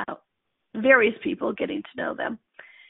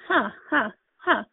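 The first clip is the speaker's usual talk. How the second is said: panicked breaths. Retold or imitated. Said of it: "I was freaking out".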